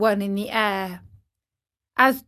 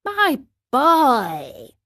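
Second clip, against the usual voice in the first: unhurried snail with a higher lilt; calm, peaceful voice; 4 semitones higher than usual. Acted. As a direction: answer placidly. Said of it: "answered the snail in a calm".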